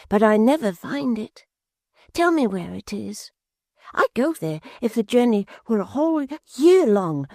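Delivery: put-on high, eager simple-minded young man; excited lad telling of the gold sky; high wondering youth, slowing at the end; Barnaby's voice. Barnaby pleading for riches.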